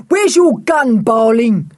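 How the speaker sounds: high, loud urgent demand; yelled. A narrator's reading. Block leaping away from the dog, yelling. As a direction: yell for the gun in alarm. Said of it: "yelled Block".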